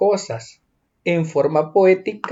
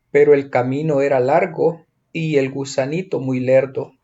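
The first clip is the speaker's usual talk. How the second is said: measured verse reading, pausing after each line; poem recitation. Acted. Teacher reading the scarecrow poem to pupils, measured recitation. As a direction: recite it line by line, lingering on some phrases.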